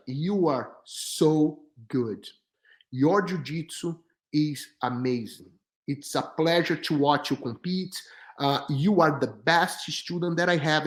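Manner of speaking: calm praise. Retold or imitated. Coach praises him gently.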